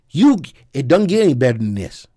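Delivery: put-on Southern US accent. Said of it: "That's my Southern accent".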